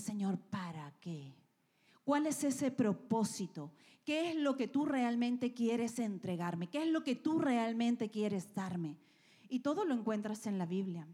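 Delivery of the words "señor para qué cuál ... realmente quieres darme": sincere asking. Shown as a demonstration. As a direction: ask him gently what it is for.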